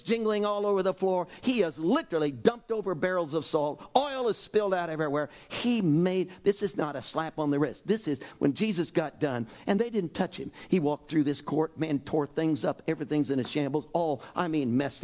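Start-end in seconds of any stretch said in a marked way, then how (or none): none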